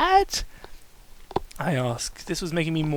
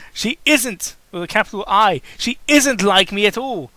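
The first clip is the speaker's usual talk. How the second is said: raised, earnest and pained; sad; 4 semitones higher, 5 dB louder than usual. Acted. Pinkie warning her coltfriend, sad and pained. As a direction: confess it like it hurts. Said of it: "starting to get sad".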